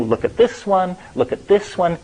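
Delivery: excited elf. Retold or imitated. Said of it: "pushing each other away".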